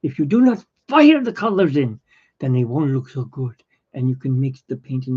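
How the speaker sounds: lightly imitated German accent; a rough go at a German painter's accent. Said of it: "He had a very strong German accent".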